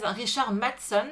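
"Richard Matheson" with "Richard" said the French way; French pronunciation. Shown as a demonstration. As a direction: say "Richard" as in French, not English. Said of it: "dont je dis Richard à la française".

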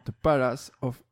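English arena name in a French accent. Real, not acted. Quizmaster repeating the stadium name, French accent. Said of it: "excusez-moi pour mon accent anglais".

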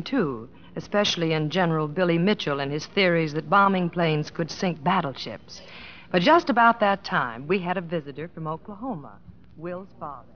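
a narrator's voice bridging the scenes; story narration. A narrator's reading. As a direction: recount it like a fond memoir, lightly narrated. Wife narrates between scenes.

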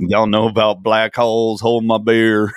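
lightly imitated Southern good old boy; laid-back mock Southern voice. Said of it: "Matthew McConaughey".

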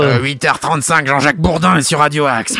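a light touch of a gruff morning radio host; Jean-Jacques Bourdin. Retold or imitated. Host lightly imitating a radio anchor to open the segment. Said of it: "j'ai pris la voix grave de Jean-Jacques Bourdin".

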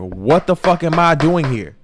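frustrated cry asking God why you're stuck; exasperated outcry to God. Retold or imitated. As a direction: throw the question up at God, fed up. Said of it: "looking at God like".

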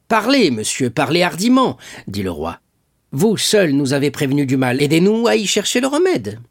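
high, loud royal urging; urgent urging. A narrator's reading. King urges Villefort to speak boldly, high and loud. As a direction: press him to speak boldly.

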